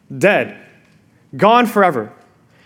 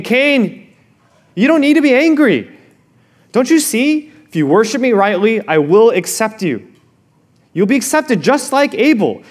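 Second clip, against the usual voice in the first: higher, earnest pleading voice; pleading God; 4 semitones higher than usual. Retold or imitated. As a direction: plead gently with Cain like a father. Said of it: "God is saying to Cain".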